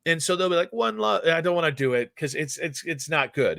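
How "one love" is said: put-on Jamaican accent. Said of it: "Jamaican accent is a really sweet tone".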